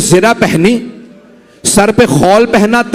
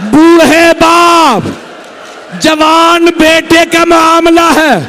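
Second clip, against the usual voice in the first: anguished wailing; 4 semitones higher, slower than usual. Acted. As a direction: cry it out slowly in grief. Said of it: "تو کوئی کہنے والا نہیں تھا".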